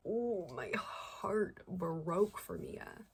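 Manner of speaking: slow, breathy whisper of heartbreak; heartbroken whisper. Real, not acted. Reacting to a sad book scene.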